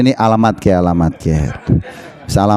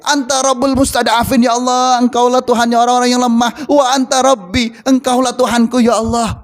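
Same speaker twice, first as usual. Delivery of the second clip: imploring prayer, pitched up and sustained; pitiful prayer; 5 semitones higher than usual. Acted. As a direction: plead to God as one who is weak. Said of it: "Rasulullah melas".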